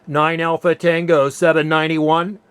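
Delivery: measured ham radio calling voice. Real, not acted. Ham operator calling any Asia Pacific station, radio CQ call. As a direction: call out the callsign evenly over the air.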